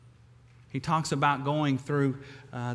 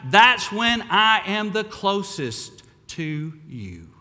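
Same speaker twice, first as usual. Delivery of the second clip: higher and much louder, proclaiming God's promise; impassioned divine reassurance; 7 semitones higher, 8 dB louder than usual. Acted. Preacher voicing God to the hurting congregation, proclaiming loudly. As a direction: cry it out to the bent and broken.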